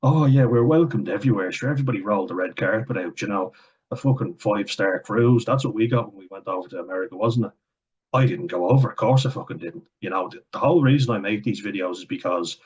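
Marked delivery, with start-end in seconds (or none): 0.0-7.5 lightly mocking impression of a smug Irishman; mocking the ignorant. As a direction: sneer at them as you parrot it. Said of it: "So many ignorant fuckers in Ireland who think".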